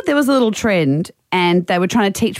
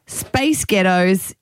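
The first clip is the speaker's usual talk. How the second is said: slow, drawn-out American "space ghettos"; American accent; 4 semitones lower, much slower than usual. Shown as a demonstration. Host sets up a Scottish pop-group trick, American accent. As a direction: demonstrate it lower and slower, American-accented. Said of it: "in an American accent".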